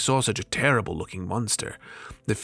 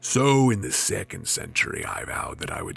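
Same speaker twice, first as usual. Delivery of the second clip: jinn recounting captivity; 4 semitones lower than usual. Acted.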